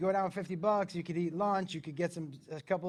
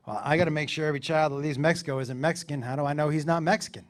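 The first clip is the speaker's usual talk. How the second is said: low, quick official; border officer; 4 semitones lower, faster than usual. Retold or imitated. Border guard questioning the dad about his kid, brisk. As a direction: rattle it off lower and fast.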